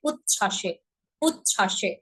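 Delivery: উচ্ছ্বাসে with a held চ then aspirated ছ; উচ্ছ্বাসে, utch-chha doubled; double consonant. Shown as a demonstration. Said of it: "দুইটা ধ্বনির উচ্চারণ করতে হবে".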